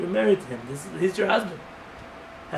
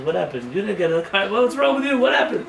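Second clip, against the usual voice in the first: rising, louder accusing wife; angry wife; 2 semitones higher, 4 dB louder than usual. Retold or imitated. Wife confronting husband in the car, angrily. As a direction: demand answers from husband, getting louder.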